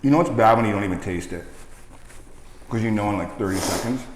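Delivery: chewing while talking; talking through a mouthful of wing; mouth full. Real, not acted. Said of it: "Oh, you're still chewing it".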